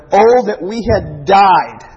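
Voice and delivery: lamenting. Retold or imitated. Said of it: "the children of Israel said".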